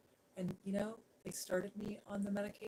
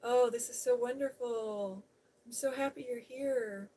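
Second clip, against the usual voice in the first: excited; 4 semitones higher, 7 dB louder than usual. Real, not acted. Welcoming a viewer to the stream.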